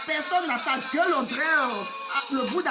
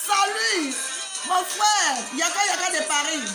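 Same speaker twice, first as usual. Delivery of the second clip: shouted hello, raised pitch; loud greeting; 4 semitones higher, 3 dB louder than usual. Real, not acted. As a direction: call out a big greeting. Greeting a friend on video.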